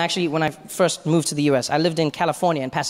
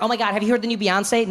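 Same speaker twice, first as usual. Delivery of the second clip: higher, gushing fan's question; casual excited question; 6 semitones higher than usual. Acted. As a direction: ask eagerly, sharing hot news. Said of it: "they're like".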